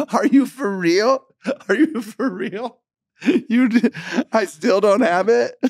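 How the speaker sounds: high, squeaky-pitched mock despair; retold dismay, slow at first then bursting out; exasperated disbelief. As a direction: plead in comic disbelief, voice way up. Retold exasperation at not being understood.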